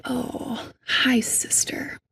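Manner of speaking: cradle the hurt part like a little sister; gentle loving whisper to her inner child; tender self-talk. Retold or imitated. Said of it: "and I'll say".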